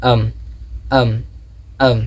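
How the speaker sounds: "um" as one short reduced syllable; "um", I and am squeezed into one sound; contracted I'm. Shown as a demonstration. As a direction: drill "um" for I'm, a beat between repeats. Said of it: "I am becomes".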